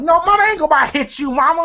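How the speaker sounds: high, rushed mock panic; retold panicky reassurance; freaking out. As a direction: imitate someone freaking out, fast and high. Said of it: "she's freaking out".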